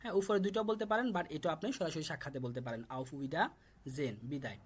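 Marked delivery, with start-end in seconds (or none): 3.0-4.2 auf Wiedersehen drawn out slowly, each syllable clear; teacher slowly modelling auf Wiedersehen; slow model pronunciation. Shown as a demonstration. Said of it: "শুধুমাত্র আমি উচ্চারণ করে দিচ্ছি".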